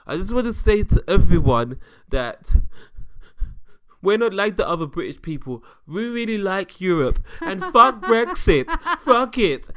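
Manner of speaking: loud drunken announcement in a mock German accent; hammed-up German-accented rallying cry. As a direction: proclaim it loudly and high in a German accent. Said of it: "a German accent on for him".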